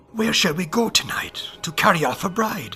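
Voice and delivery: low, quiet whisper. Reading a fairy tale aloud, a fairy plotting at night: low whisper. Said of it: "heard a man say in a low whisper".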